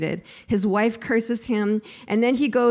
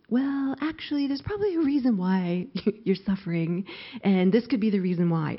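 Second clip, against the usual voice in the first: tentative suggestion. Acted. Friends gently suggest a reason.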